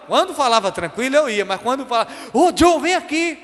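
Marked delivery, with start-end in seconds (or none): 2.3-3.4 higher, slower stern summons; angry mother. Retold or imitated. Mother summoning her son in anger, high and stern. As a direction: draw out the call as a threat. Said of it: "quando minha mãe tava com raiva".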